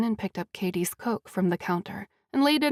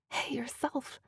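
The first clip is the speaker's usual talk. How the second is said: smiling softly; 3 semitones higher, 10 dB quieter, slower than usual. A narrator's reading. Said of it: "a wide smile bursting all over her face".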